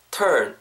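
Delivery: "turn" with a full English R; stronger R sound. Shown as a demonstration. Teacher showing learners the R sound, clearly R-coloured "turn". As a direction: bring out the R in "turn". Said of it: "R 사운드 좀 더 살리셔서".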